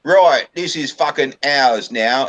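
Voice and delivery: loud, high, drawn-out proclamation; blustering beefeater. Acted. Beefeater claiming France for England, blustering and loud. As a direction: announce the conquest in a slow, booming beefeater voice.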